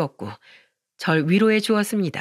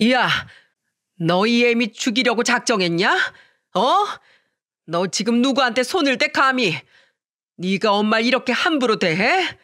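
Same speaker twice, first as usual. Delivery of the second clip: put-on scolding old mother, raised and indignant; angry mother-in-law; 3 semitones higher than usual. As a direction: scold your son for daring to touch you.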